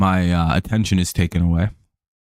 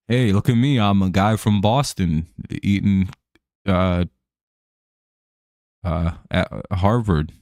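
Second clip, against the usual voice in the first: put-on Boston accent. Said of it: "that crazy Boston accent".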